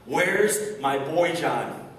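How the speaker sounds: slow, drawn-out imitation of an angry father's yell; angry dad yelling. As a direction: imitate dad demanding an answer, stretching the words. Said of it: "it's angry, he kinda yells at one of the nurses".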